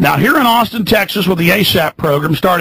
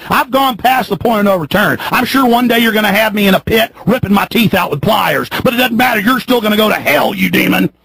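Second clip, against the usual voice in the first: heated, raised-pitch tirade; angry defiance; 3 semitones higher than usual. Real, not acted. Host defying those who threatened him, angry defiance. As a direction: throw it defiantly at your enemy.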